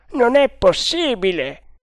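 the second guard brushes it off; doubting guard. A narrator's reading. (guardia incredula, voce alta e forte)

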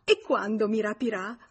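thrilled and impatient to know; joyful eagerness. A narrator's reading. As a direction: ask in delighted anticipation. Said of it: "fece un balzo di gioia".

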